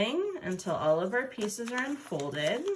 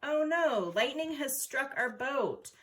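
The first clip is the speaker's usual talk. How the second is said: playful pretend gasp of dismay, higher; mock alarm; 6 semitones higher than usual. Folding teacher playing along as lightning hits the boat, mock alarmed.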